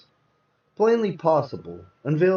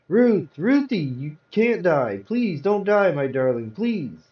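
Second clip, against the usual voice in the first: grieving plea; 4 semitones higher, slower than usual. Acted. Pleading over wife's body.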